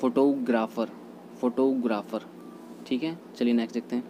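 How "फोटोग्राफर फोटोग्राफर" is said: फोटोग्राफर with a reduced first vowel; फोटोग्राफर leaning on 'to'; correct pronunciation. Shown as a demonstration. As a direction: say फोटोग्राफर as 'fuh-TOH-graa-fer'. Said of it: "ऐसे ही हो जाता है".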